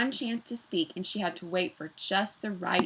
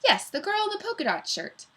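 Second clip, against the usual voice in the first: sly teacher voice; 12 semitones higher than usual. A narrator's reading. Mister Gorf calling on pupil.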